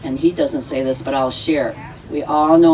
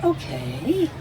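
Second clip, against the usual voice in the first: kindly; 2 semitones higher, 6 dB quieter than usual. Retold or imitated. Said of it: "he so kindly went".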